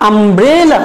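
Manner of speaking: "umbrella" with a long, stressed middle syllable; stress on BRE. Shown as a demonstration. Teacher leads students in saying "umbrella", middle syllable stressed. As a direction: swell on the middle of "umbrella", then fall away. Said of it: "এখানে আমরা একটু জোর দিয়ে বলবো".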